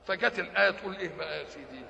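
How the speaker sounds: usual speaking voice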